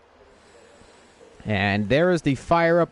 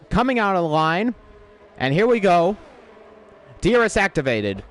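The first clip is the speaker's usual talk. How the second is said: motorsport commentator; 4 semitones higher than usual. Real, not acted. Live lap start, rising commentary.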